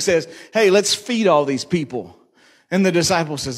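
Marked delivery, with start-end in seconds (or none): 0.5-2.2 winking Jesus. Retold or imitated. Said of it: "with a wink".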